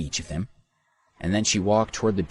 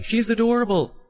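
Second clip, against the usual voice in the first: very high, louder squeal of admiration; adoring yell; 5 dB louder than usual. A narrator's reading. Second fan yelling from the corridor, adoring squeal. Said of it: "followed by another voice yelling".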